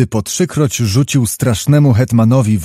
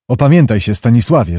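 stern; faster than usual. Acted. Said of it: "rzekł surowo Jan".

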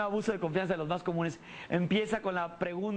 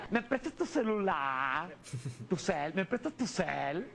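put-on girl voice; 5 semitones lower, slower than usual. Girl pleading for phone.

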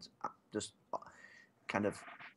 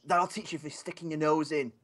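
mild acted shout, pitched up; half-hearted shout; 5 semitones higher than usual. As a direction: scold him with a restrained shout. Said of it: "I kinda shout at him".

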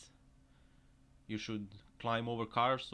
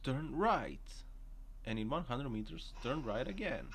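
GPS navigation voice; 3 semitones higher than usual. Pretend. Vlogger mimicking the sat-nav giving turn directions, mild robotic voice. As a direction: read the directions like a calm car GPS. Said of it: "Navigation voice".

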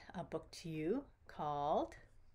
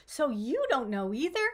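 high, loud indignant cry; cried out; 6 semitones higher, 9 dB louder than usual. Acted. Duckling cries out at the ladybug, high and loud. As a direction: shout it out high and shrill with exasperation. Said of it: "cried Quackers".

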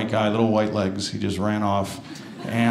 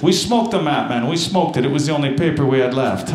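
mock Jamaican accent. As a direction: protest in a mild mock Jamaican lilt. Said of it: "turns into a Jamaican accent".

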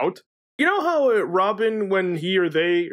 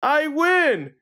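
generic victory quote; 10 semitones higher than usual. Retold or imitated. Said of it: "one of them's just".

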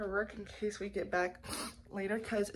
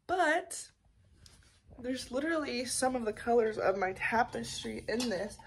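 groggy morning voice; just-woke-up morning voice. Real, not acted. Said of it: "I still have my morning voice".

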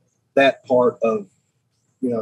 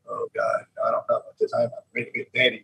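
scared inner thought; 6 dB quieter, faster than usual. Retold or imitated. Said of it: "I'm scared to death 'cause I'm thinking".

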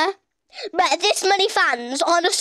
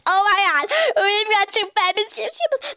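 high-pitched mock fan excitement; mock excited fans; 5 semitones higher than usual. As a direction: imitate starstruck fans, pitched up. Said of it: "Everybody's like".

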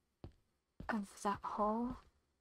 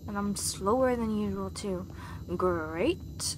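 mad. Real, not acted. Stuck player griping that the water is now dangerous, mad. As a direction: vent real annoyance at the game. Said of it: "Sorry if I sound mad".

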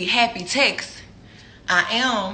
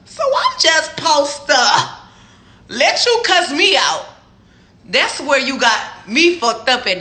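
slow, louder, higher and emphatic; indignant; 4 semitones higher, 4 dB louder, slower than usual. Real, not acted. Telling off the texter, slow and indignant. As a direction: lean hard on each word in disbelief.

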